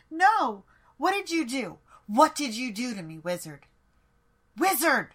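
shrill panicked yelling; panicked shout. Acted. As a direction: scream at the wizard in alarm. Queen realises the spell hits her.

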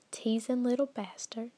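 "teasing little bastard" drawled Southern, "little" lifting up; Southern belle accent. Shown as a demonstration. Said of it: "switching to my Southern Belle".

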